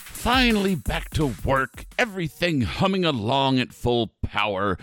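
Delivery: theatrical sinister host; spooky ride narrator. Acted. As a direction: grandly savor the return.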